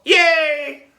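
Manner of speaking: high, delighted squeal; kid cheering. A narrator's reading. Classmate cheers that math is cancelled, high delighted squeal.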